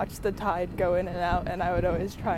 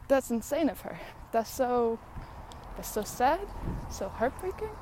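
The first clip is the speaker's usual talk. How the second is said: dismayed outburst; 5 semitones higher than usual. Real, not acted. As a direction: cry out how heartbreaking it is. Emotional reaction to song.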